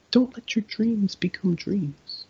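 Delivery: high, intense motivational voice; motivational meme. Retold or imitated. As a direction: preach it like a hype coach. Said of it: "motivation taunt".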